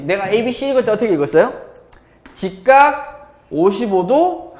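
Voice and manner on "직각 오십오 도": "직각 오십오 도," slowly, each item held high. Shown as a demonstration. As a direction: read out "직각 오십오 도," at half pace, item by item. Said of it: "이렇게 읽었잖아". ("직각 오십오 도,"를 높고 느리게 끊어 읽기)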